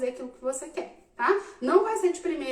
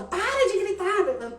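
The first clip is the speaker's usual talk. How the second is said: mock yell; 6 semitones higher, slower than usual. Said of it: "Ao invés de ficar gritando de volta".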